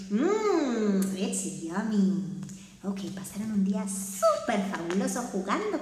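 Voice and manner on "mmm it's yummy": father's voice. Acted. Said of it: "And he said".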